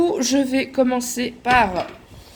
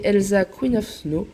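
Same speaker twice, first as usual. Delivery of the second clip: English words read with a French accent; reading an English title with a French accent; franglais accent. Real, not acted. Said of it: "excusez mon accent, euh, franglais".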